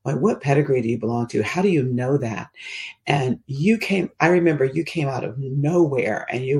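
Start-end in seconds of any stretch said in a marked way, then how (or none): 0.2-2.5 put-on Mean Girl voice. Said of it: "in a Mean Girl voice".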